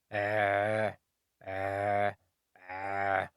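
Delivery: "Uh" squeezed from the middle of the throat like a choke; throat sound. Shown as a demonstration. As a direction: constrict the throat on each "uh". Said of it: "Ain is pronounced from the middle of the throat".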